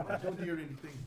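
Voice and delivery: a mild tearful stammer; sobbing. Acted. Irina tells the party she hears nothing, lightly sobbing. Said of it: "She's, she's sobbing".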